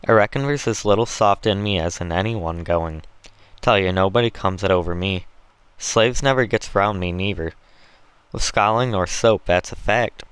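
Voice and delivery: lightly voiced rough Southern slave trader; hint of a swaggering overseer; boastful planter.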